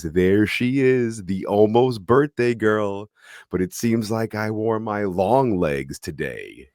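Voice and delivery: slow, high creepy sing-song. Retold or imitated. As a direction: croon it slowly like a creepy stalker. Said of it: "in almost a sing-song voice".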